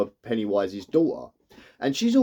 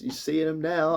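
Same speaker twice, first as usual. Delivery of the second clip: high, rising sneer in imitation; high mock-teasing retelling; mocking taunt; 5 semitones higher than usual. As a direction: taunt him in a high put-on voice. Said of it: "he starts mocking him".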